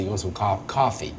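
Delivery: Brooklyn "coffee" with an open AH vowel, "cahfee"; Brooklyn accent. Shown as a demonstration. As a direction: ask softly like a Brooklynite. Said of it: "a Brooklyn accent might say".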